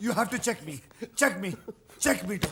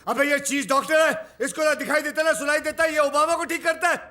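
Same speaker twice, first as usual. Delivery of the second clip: heated, raised-voice rant; angry shouting. Acted. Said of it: "Why are you shouting?".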